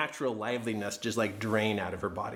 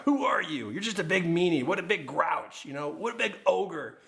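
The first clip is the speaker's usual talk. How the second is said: higher-pitched, mock self-scolding; scolding inner critic; 4 semitones higher than usual. Husband's inner story berating him, mock scolding. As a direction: act out the accusing voice in your head. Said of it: "and it goes like this".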